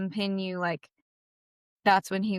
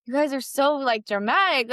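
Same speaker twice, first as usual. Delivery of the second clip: higher, eye-rolling brush-off; dismissive; 5 semitones higher, 3 dB louder than usual. Retold or imitated. Brushing off her worried teacher and class, dismissive. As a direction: wave off the fuss, mock exasperated.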